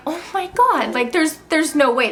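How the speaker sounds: high, startled disbelief; shocked oh my God. Retold or imitated. Retelling her shock at the positive test, high and startled. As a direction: squeal it out in sudden shock.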